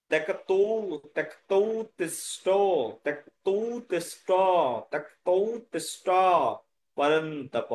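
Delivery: slow repeated word groups; original pronunciation. Shown as a demonstration. Teacher drilling the last line for students, slow segmented pronunciation. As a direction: draw out ত্যক্তৌ তিষ্ঠ, finish on পরন্তপ. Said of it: "মূল উচ্চারণটা আপনারা".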